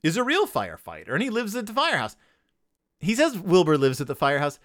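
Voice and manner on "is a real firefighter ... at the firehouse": higher, hearty dad announcing news; mock Pop voice. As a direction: play the cheerful father with a raised voice. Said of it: "so Pop is like".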